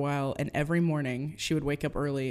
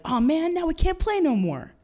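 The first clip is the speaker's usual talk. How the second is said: much higher, whining complaint; whiny kids; 11 semitones higher than usual. Retold or imitated. Kids whining after the home run. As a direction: whine like a bummed-out kid.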